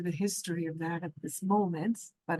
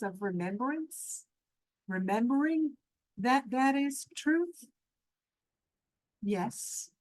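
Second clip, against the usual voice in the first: measured, reverent teaching in spaced phrases; spiritual meditation teaching. Real, not acted. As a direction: guide listeners thoughtfully, pausing between thoughts. Leads a meditation session.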